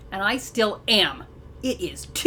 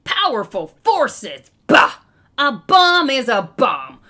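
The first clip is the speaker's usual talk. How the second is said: loud blustering army general; 5 dB louder than usual. Acted. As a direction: bark it like a gruff general.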